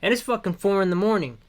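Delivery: tired, hoarse and worn out; a voice that's nearly gone. Real, not acted. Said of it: "My voice is kinda gone".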